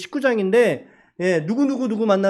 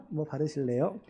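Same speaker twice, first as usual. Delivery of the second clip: sheepish pun; 5 semitones lower, 12 dB quieter than usual. Pretend. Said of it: "이런 거 안 하려고 했는데".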